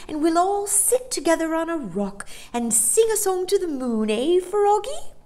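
high, loud character voice; disappointed Amelia the dolphin. A narrator's reading. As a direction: protest the short visit with gusto. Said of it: "Amelia was clearly disappointed".

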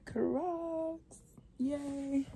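bright exclaim after the whisper; excited reveal. Real, not acted. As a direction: proudly show them off. Excited reveal of her shoes.

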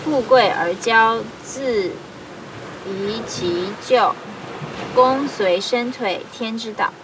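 measured reading in short, paused phrases; formal Mandarin read-aloud with falling phrase ends; classical Chinese recitation. Acted. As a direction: recite an ancient text line by line.

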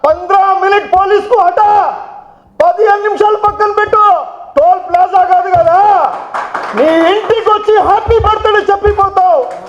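angry shout. Real, not acted. Politician taunting the rival MLA in front of the press, angry shout.

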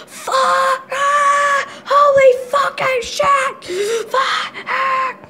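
screaming. Real, not acted. Screaming on the ride.

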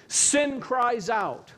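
"Sin cries out" spaced out very slowly, each word weighted; slow emphatic statement. Real, not acted. Preacher driving home a point to the congregation, slow and weighty. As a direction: lean on "Sin" and let the line land slowly. Preacher stressing sin's cry.

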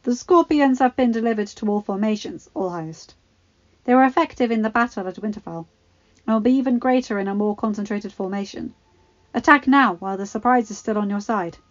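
scheming Qyburn. Acted. Qyburn advising the king to attack.

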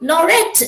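"nor yet" set apart, starting on an unstressed "nor"; teacher isolating "nor yet" for the meter; iambic stress demonstration. Shown as a demonstration. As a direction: say "nor yet" slowly as a separate foot.

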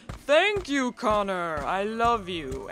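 lightly hammed-up grateful character; mock gratitude. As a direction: gush thanks in playful imitation, slowing at the end. Voices imagined grateful horn guy.

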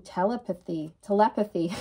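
"telepathy" tried with the stress shifted between syllables; wrong stress. Shown as a demonstration. Card reader stumbling over a card's word, wrong stress. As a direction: play with where the stress lands in "telepathy". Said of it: "Put the wrong emphasis on the wrong syllable".

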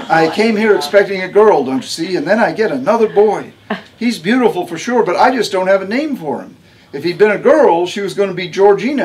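a tough, no-nonsense patient giving orders; Harmony's voice. A narrator's reading. Harmony explains about names.

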